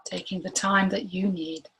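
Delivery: unhurried meditation guide, long pauses between phrases; guided meditation. Real, not acted. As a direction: gently guide them inward, leaving room to breathe.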